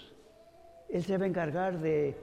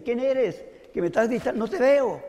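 higher, louder questioning call; hanging man's demand; 4 semitones higher, 4 dB louder than usual. Retold or imitated. Hanging man challenges the unseen voice, calling up. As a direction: shout up at someone you can't see, lightly acted. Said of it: "le dice".

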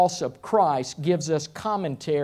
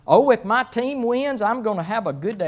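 lightly mimicked fan, higher and quickening; mock sports fan; 5 semitones higher, 3 dB louder, faster than usual. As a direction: lightly imitate a fan, pitched up then rattled off. Voicing a fan living on feelings.

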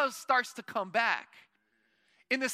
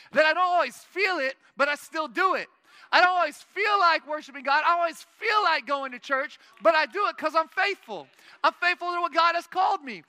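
fervent preaching; 4 semitones higher, 4 dB louder than usual. Real, not acted. Preacher building to a climax.

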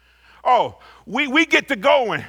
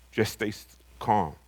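soft reassurance; 11 semitones lower, 8 dB quieter than usual. Acted. Repeats line softly to congregation.

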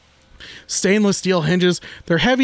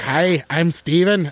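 imitating video guy; slower than usual. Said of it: "He's like".

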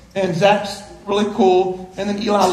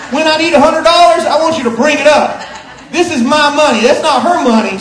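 mock emphatic order; 4 semitones higher, 5 dB louder than usual. Retold instruction given before service.

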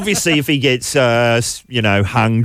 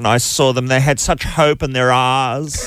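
imitated posh Australian accent, slow on the punchline; posh drawn-out vowels, "eyes" like "arse"; Prue and Trude accent; slower than usual. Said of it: "This woman was talking about".

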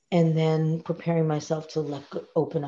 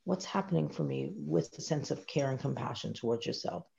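gentle invitation; 8 dB quieter than usual. Shown as a demonstration. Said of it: "inviting them".

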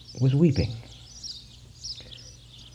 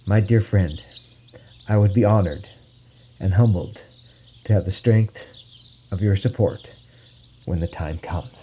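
assuredly. Acted. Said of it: "told him assuredly".

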